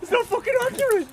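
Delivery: put-on squeaky high New Zealand accent. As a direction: pitch way up into a goofy Kiwi accent. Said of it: "you doing that accent".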